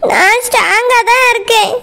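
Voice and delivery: insisting while crying; a tearful protest that she's strong. Acted. Anu protests to Surya that she is strong, through tears. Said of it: "அழுதுட்டே இருக்காத அனு".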